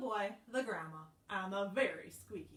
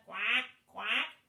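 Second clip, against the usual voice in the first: louder quacking; duck quack; 8 dB louder than usual. Acted. Teacher quacking as the duck in the song. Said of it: "and the duck said".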